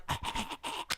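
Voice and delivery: short, very quiet voiceless gasps; faint, broken croaks of a wounded robot; imitated wounded gasps. Vision bleeding out on the table, imitated weak gasps.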